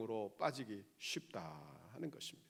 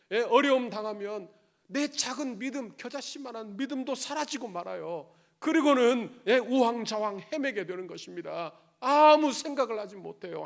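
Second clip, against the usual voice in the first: louder, higher preaching at full force; fervent preaching; 6 semitones higher, 9 dB louder than usual. Acted. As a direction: drive it home to the congregation. (힘차게 외치는 설교)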